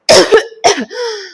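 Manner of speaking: a sudden high strained cough. Retold or imitated. Waking from the dream still coughing, showing viewers the cough. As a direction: cough as if just woken. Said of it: "I am like".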